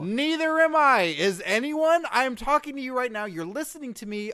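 high, loud squeaky dummy voice; shrill dummy hyping a DVD; squeaky ventriloquist dummy. Pretend. Squeaky puppet voice pitching DVD.

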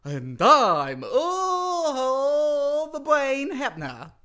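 high, loud, long-stretched name announcement; grand entrance. Pretend. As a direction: draw the name out in a huge wail. Second try at grand entrance.

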